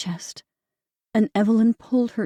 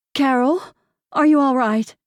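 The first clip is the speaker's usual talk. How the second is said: concerned call; 6 semitones higher, 5 dB louder than usual. A narrator's reading. Sister calls out, concerned.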